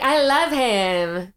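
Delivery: slow, drawn-out celebrity impression; a singer. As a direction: imitate the star, lingering on the words. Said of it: "But I was trying to do".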